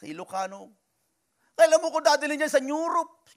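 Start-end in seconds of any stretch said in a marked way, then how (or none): 1.5-3.3 mother. Retold or imitated. Mother asks in Ilocano.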